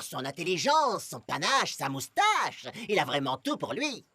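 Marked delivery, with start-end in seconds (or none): 2.9-4.1 laughing. Acted. Amy laughs at joke.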